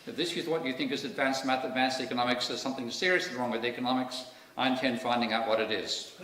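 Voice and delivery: a lightly put-on Austrian accent, scornful; an Austrian accent half-tried on a blunt put-down; attempted Austrian accent. Lecturer quoting a scathing physicist in a mild Austrian accent. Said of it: "I'll try an Austrian".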